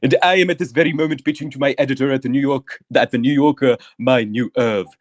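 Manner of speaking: grand, self-important storyteller, lightly done; a hint of a vain romance novelist holding court; lightly voiced pompous author. S0 plays pompous author Evidius.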